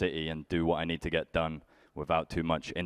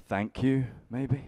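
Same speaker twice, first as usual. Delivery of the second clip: sarcastic suggestion; 6 semitones higher, slower than usual. Retold or imitated. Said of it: "He's like".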